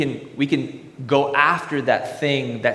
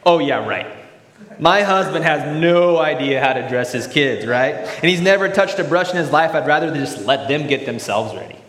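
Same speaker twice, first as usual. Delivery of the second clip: mock sarcastic scoff, a bit louder; sarcastic cynic; 4 dB louder than usual. Preacher voicing a cynical wife, sarcastic and louder.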